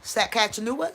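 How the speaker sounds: "Saskatchewan" with a questioning rise; tentative "Saskatchewan?"; unsure pronunciation. Shown as a demonstration. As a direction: try "Saskatchewan" and lift the end, asking. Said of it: "Am I saying it right?".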